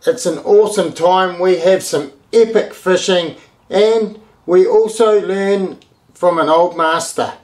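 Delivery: punchy, projected episode teaser; show intro announcer. Acted. Host teasing the episode to viewers, punchy announcer read. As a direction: sell what's coming up on the show.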